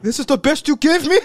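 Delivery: loud, high mocking scorn; hammed-up disgusted god; mock Raiden scorn. Voicing disdainful Raiden.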